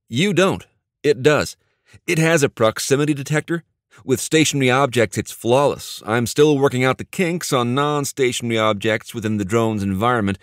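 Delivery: lightly voiced enthusiastic inventor; eager tech whiz. Voices Neil explaining his invention.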